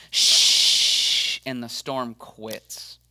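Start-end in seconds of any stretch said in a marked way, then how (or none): 0.1-1.4 unvoiced shush; hushing. Jesus hushing the storm with a calm shush. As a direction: hush the storm calmly. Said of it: "And Jesus goes".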